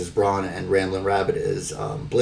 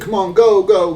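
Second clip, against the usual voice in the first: much higher, louder hammed-up go go; mock hurry-up shout; 11 semitones higher, 7 dB louder than usual. Adam Pierce waving the ambulance off, high hammed-up shout. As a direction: bark at the ambulance to get moving. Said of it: "Adam Pierce is like".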